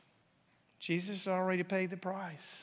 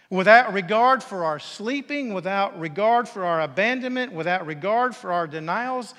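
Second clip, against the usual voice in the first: preaching emphasis; 9 dB louder than usual. Real, not acted. Preacher builds a repeated list.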